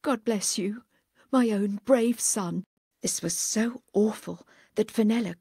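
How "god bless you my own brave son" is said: a touch of tearful farewell; understated sob through the blessing; sobbed. Acted. Grandma blessing her son at parting, mildly tearful. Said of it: "and she sobbed".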